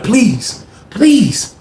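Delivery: mock begging that builds; building pleading. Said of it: "He like".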